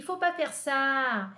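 slow, carefully spoken French; slow model sentence. Shown as a demonstration. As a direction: say it slowly for students to repeat. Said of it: "Repete comigo". (devagar, para os alunos repetirem)

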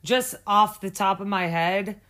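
talking with a lisp from a missing tooth; lisping through a gap. Real, not acted. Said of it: "I don't have my tooth in".

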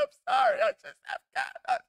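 very high, timid mock apology; hammed-up high-pitched sheepish self; squeaky apology. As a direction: squeak out a sorry like a scolded kid. Retelling his own apology to Amy.

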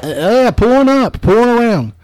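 a hint of the clerk stalling the customer; drive-thru worker. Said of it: "She goes".

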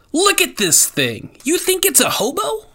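high, loud disbelieving outcry; incredulous. Acted. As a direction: shout it in total disbelief at her. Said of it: "I said incredulously".

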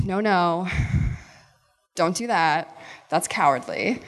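lightly voiced conscience, slightly low, with pauses; gently caution, like a conscience; little inner voice. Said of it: "this little voice is telling me".

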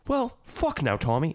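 high-pitched quoted comeback; acted movie quote. Quoting Turkish's response to Tommy, high acted quote. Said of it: "Turkish's response is just".

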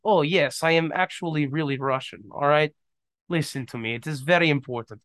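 put-on hamming up a Russian accent to sound impressive; mock Russian accent. Joking to a girl that he is really Russian, in a light mock Russian accent. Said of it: "some girl thought I was actually Russian".

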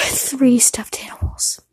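slow, unvoiced near-crying whisper; tearful whisper. Real, not acted. Ashamed of her art project, tearful whisper. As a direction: whisper it close to tears. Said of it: "mine was literally".

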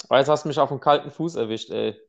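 numb mouth. Real, not acted. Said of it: "ich bin noch betäubt vom Zahnarztbesuch heute".

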